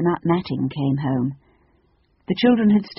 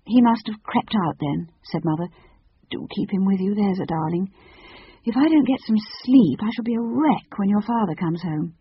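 higher, lightly voiced mother; weary mother; 5 semitones higher than usual. Mother asking her daughter to mind the baby, weary coaxing. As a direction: coax lightly, like a tired mum.

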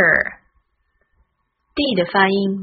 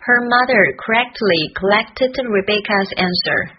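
tongue twister a little quicker; speeding up. Shown as a demonstration. Teacher practising the tongue twister, gradually speeding up. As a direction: link the words, picking up the pace. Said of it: "从慢慢练习到加快速度".

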